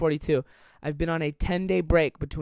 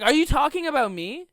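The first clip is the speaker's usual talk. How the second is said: imitating confused friend; 9 semitones higher, 5 dB louder than usual. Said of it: "he literally was like".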